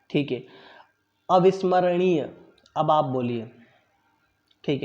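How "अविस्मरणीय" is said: अविस्मरणीय spoken slowly, syllable by syllable, for students to copy; model pronunciation. Shown as a demonstration. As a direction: draw out अविस्मरणीय carefully so every sound is heard. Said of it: "मैं बोलूँगा, फिर आपको बोलने के लिए कहूँगा". (अविस्मरणीय का धीमा, शुद्ध उच्चारण)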